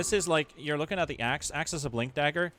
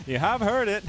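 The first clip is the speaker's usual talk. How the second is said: higher, louder put-on British accent; cheeky British accent; mock British; 10 semitones higher, 6 dB louder than usual. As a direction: tease in a hammed-up British voice. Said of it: "a little bit of British".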